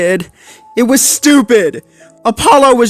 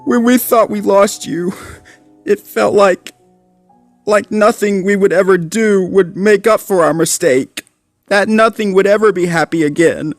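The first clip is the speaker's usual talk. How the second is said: high, choked-up voice; on the edge of tears; tearful pup; 10 semitones higher than usual. A narrator's reading. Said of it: "began to tear up".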